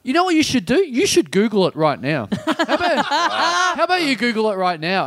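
high, insistent questioner; crazy girl. Retold or imitated. Crazy girl pressing her theory on the woman, high insistent voice. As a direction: imitate a keen weirdo, pitched well up. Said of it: "the crazy girl goes".

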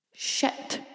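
sharp unvoiced whisper; whispered shit. Waking at night about to be sick, panicked whisper. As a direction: breathe the word out in sudden panic. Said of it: "I thought".

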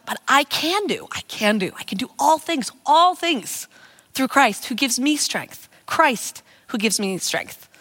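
slow, repeating phrases, leaning on "all" and "Christ"; chanting the verse to yourself, savouring each piece; meditative repeating. Shown as a demonstration. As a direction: turn the verse over in your mouth, phrase by phrase. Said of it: "Som jeg gjorde bare sånn".

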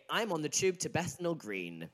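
modelled London-accented sample sentence. Shown as a demonstration. Giving co-host a sentence, London accent. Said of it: "Go say".

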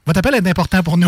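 quick hold-message voice; customer service voice. Retold or imitated. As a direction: recite it like a phone hold recording.

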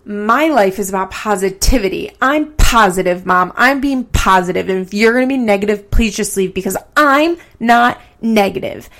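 imitated mean voice; Farrah. Imitating a daughter telling Mom she's positive, mean voice. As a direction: insist on positivity while sounding nasty and aggressive. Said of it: "this mean voice".

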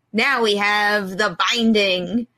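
slow, dramatic trailer announcer; movie trailer voice. Shown as a demonstration. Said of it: "That's my, my movie trailer voice".

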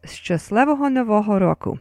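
"Szczęśliwego Nowego Roku" said as shchas-LEH-vo-ho no-VO-ho RO-ku; Ukrainian pronunciation demo. Shown as a demonstration. Host teaches Happy New Year, "Szczęśliwego Nowego Roku" modelled in Ukrainian. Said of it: "how to say Happy New Year in Ukrainian".

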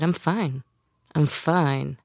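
tight-jawed, words pushed through teeth; through gritted teeth. Retold or imitated. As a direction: say it with the jaw clenched. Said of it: "you said it through clenched teeth".

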